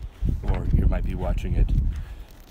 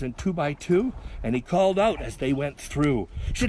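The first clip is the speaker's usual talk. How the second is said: lively, higher-pitched poem reading; poem recital; 6 semitones higher than usual. A narrator's reading. Reader performing a Noah's ark poem, lively recital. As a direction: read comic verse with a bouncing lift. Reads a comic poem aloud.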